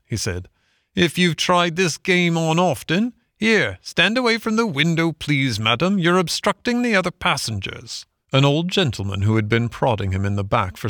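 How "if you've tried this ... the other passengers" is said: high, officious clerk voice; dismissive ticket clerk. A narrator's reading. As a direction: send a nuisance away from the window. Clerk sends Toad away.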